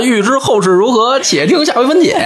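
评书腔; storyteller cliffhanger. Shown as a demonstration. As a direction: deliver it like a teahouse storyteller. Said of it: "我是跟评书门学的".

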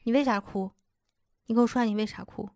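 imitated veiled reproach. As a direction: mimic a parent prodding, pretending only to ask. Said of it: "但实则责怪你的这种语气". (模仿貌似询问、实则责怪的语气)

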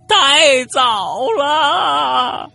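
high, drawn-out ghostly howl of grief; wailing. Acted. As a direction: howl the apology, stretching every word. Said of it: "这会儿已经嚎起来了". (拖长音高声哭嚎)

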